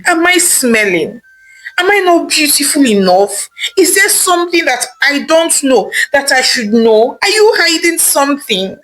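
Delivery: wife on the verge of tears, questioning her husband; near tears. Acted. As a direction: ask as if tears are close. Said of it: "already at the verge of tears".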